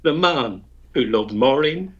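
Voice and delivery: lilting, storytelling rhyme recital; poem recitation. Acted. Ulster poet recites his comic ballad to the radio host, rhythmic recital. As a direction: recite the ballad with a bard's relish.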